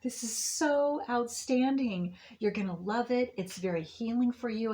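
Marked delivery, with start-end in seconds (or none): 0.0-2.2 high, loud mock cheer, much higher and louder; overjoyed squeal. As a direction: squeal like someone who can't contain her joy, slowing at the end. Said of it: "she's just going".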